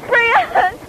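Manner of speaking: high, loud call of a name. Real, not acted. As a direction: call across the yard. Calling out to a friend.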